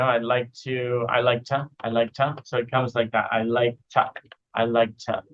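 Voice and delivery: "to" reduced in "I like to"; quick swallowed "to"; weak "to". Shown as a demonstration. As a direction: chunk "I like to". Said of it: "weak sounds".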